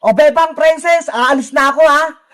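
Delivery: low courier farewell; delivery rider. Acted. Rider taking leave of the children, low-voiced.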